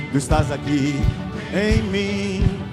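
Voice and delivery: usual speaking voice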